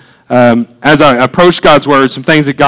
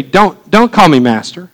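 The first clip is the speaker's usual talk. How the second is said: voice of the Holy Spirit; 3 semitones higher than usual. Retold or imitated. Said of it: "this is what the Holy Spirit said to me".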